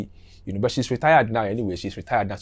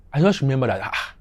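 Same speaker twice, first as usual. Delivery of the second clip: ordinary talk, nothing marked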